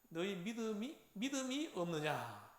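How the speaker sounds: questioning rebuke, falling at the end; imitated reproach. Teacher quoting Jesus to doubting disciples, mild reproach. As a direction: voice a dismayed master reproving followers. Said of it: "그렇게 책망을 한다는 거죠".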